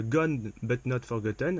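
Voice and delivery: slow English title in a French speaker's English accent; accent anglais. Real, not acted. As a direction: say it slowly with an attempted English accent. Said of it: "avec le bel accent anglais". (titre prononcé lentement, avec un accent anglais approximatif)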